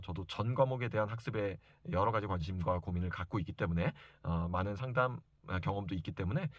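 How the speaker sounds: ordinary talk, nothing marked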